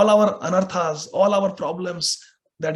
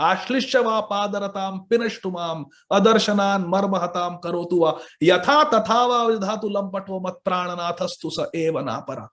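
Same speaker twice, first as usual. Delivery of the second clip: verse recitation; faster than usual. Real, not acted. Reciting a Sanskrit prayer verse.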